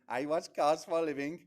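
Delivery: imitating a young Scot's Scottish accent; quick mock Scottish accent. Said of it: "stood there like that in his accent".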